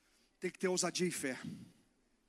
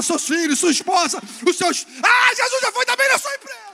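preaching that climbs higher and louder to a shout; building shout; 3 semitones higher, 15 dB louder than usual. Real, not acted. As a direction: build from strong to full shout. Pregação crescendo. (pregação crescendo até o grito)

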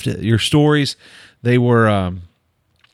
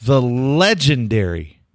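grand guest introduction. Real, not acted. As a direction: roll out each phrase with dramatic pauses.

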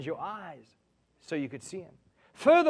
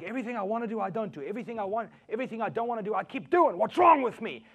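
higher pitch, building louder; exasperated Paul; 4 semitones higher, 5 dB louder, faster than usual. Acted. Paul lamenting his own failings, mounting exasperation. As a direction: build to a frustrated outcry. Acts out Paul's frustration.

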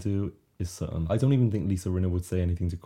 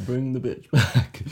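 emphatic; 5 semitones higher, 6 dB louder, slower than usual. Real, not acted. Emphatic demand.

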